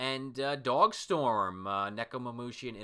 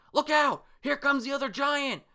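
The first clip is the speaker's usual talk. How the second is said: a high, loud mock alarm call; warning cry; 14 semitones higher, 7 dB louder than usual. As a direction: shout the warning across the battlefield. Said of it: "Old Man Yo says that".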